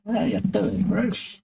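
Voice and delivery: hammed-up Australian accent; mock Australian. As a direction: greet him like a cartoon Aussie. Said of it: "you're apparently Australian now".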